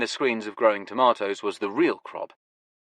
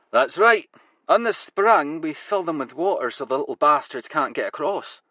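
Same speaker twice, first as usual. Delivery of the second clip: put-on Glasgow accent; 5 semitones higher than usual. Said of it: "his Glasgow accent now going full throttle".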